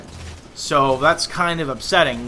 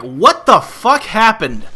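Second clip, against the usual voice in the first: baffled outrage; 7 semitones higher, 6 dB louder, slower than usual. Retold or imitated. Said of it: "I'm like".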